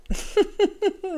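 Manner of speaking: short high laugh. Real, not acted. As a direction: laugh it off lightly. Laughs at pointlessness.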